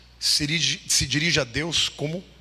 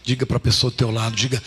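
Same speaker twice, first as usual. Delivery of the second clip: ordinary delivery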